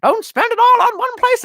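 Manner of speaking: high, fast, condescending voice; mock patronizing boss. Employer telling a worker about his raise, high and patronizing. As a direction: talk down like a smug boss. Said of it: "It's like".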